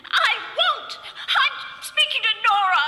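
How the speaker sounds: sharp cry of refusal, pitch up; defiant cry. Acted. Wife refusing to give up the phone, defiant cry. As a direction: snap back through tears, refusing.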